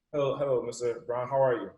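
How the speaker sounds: acted flustered fan greeting; starstruck. Young fan surprised by Les Brown walking in, starstruck. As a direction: stumble from amazed to meek hello. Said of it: "And I'm starstruck".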